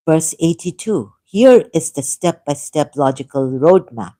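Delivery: emphatic, measured read-out of a prepared text; reading aloud. Acted. Laying out a debate argument for listeners, emphatic reading.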